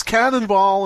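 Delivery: loud, high cannonball yell; gleeful shout. Pretend. Cartoon Jesus shouting as he leaps off the dock. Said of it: "he goes".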